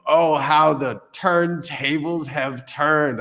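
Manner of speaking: slow, grand delivery of a botched idiom; deliberately botched quote, drawn out; dramatic mock line. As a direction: ham it up slowly like a TV boss. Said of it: "I said that purposely like that".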